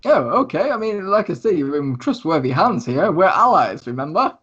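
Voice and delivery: a touch of theatrical reassurance; showy thief persuading. Acted. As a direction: coax them in a lively, up-and-down voice. Lucius persuading his guests.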